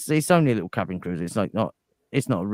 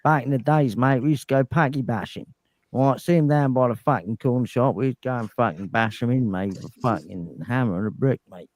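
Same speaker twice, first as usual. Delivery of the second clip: lightly put-on British mumbler's ramble; Boomhauer. Guest in character tells old stories, rambling British mumble. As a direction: ramble on as a slurring British bloke. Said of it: "was like British Boomhauer".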